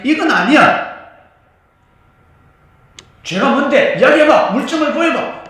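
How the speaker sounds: loud, high, indignant challenge; angry protest. Acted. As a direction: shout the demand for proof. 제자들이 따지는 장면. (높고 크게 따지는 항의)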